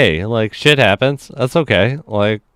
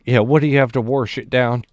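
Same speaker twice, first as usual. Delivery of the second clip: higher, hammed-up desperate customer; mock worked up; 5 semitones higher, faster than usual. Prankster at the drive-thru acts desperately hungry, high and hammed-up. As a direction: beg for food like it's urgent. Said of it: "pretends to just be so worked up".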